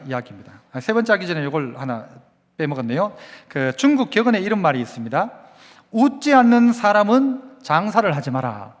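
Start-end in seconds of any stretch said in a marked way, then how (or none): 5.9-8.8 slow proverb. Shown as a demonstration. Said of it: "한번 따라해볼까요?".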